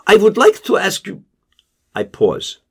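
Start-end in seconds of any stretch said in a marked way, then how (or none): 0.1-1.2 higher, level voice lifting slightly; Casper's flat tone edging up; flat but rising. Acted. Casper catching the father before he hangs up, flat but rising. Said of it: "His voice retains its usual flatness, but rises slightly".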